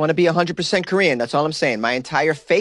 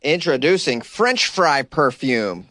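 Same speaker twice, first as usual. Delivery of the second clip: mock announcer; much slower than usual.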